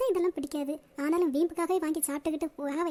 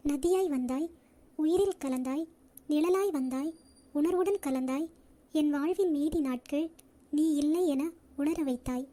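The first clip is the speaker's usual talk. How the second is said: poem reading; slower than usual. Acted. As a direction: read it slowly, line by line, with pauses. Reads a love poem.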